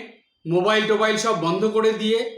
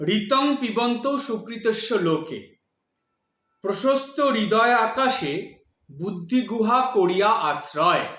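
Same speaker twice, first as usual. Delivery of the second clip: rhythmic verse reading. Shown as a demonstration. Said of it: "কবিতার আকারে, ছন্দের আকারে".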